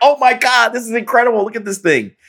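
very high, thrilled, excited yelling. Acting out what he yelled to people nearby: retelling an excited yell. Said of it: "I'm yelling to these people like".

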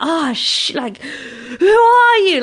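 very slow, stretched-out, high, drawn-out shriek. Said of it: "screaming outside".

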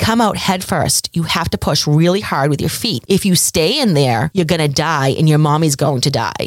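plain

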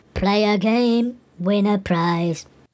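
creepy, eerie, drawn-out drawl. Narrator voicing a carny pointing at a booth, creepy drawl. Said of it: "says in a creepy drawl".

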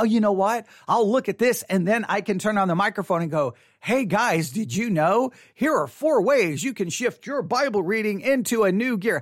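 ordinary talk, nothing marked

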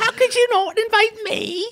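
very high-pitched put-on granny voice. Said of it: "That's a perfect Edith impression".

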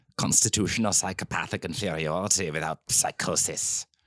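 English spoken in a put-on German accent. Quoting an old diagnosis label, in a german accent. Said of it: "Maar dan met een Duits accent".

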